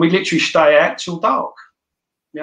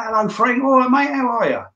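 put-on older fellas greeting; 10 semitones higher than usual. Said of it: "they're all going".

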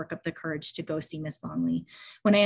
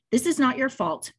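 firm, higher and louder reassurance; 7 semitones higher, 5 dB louder than usual. A narrator's reading. Teacher firmly reassures a tearful student, firm and louder. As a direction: say it like a steady teacher who means it. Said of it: "she said firmly".

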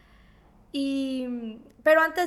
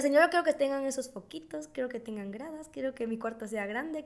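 put-on quiet childhood prayer; 7 dB quieter than usual. Retells her childhood prayer wishes.

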